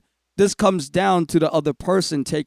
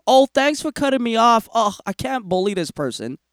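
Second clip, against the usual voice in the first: sarcastic; 7 semitones higher than usual. Retold or imitated. Mock reply to rude driver.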